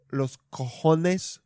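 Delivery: los cojones said slowly in Spanish, rolled and drawn out. Shown as a demonstration. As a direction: savour "los cojones" like a native Spanish speaker.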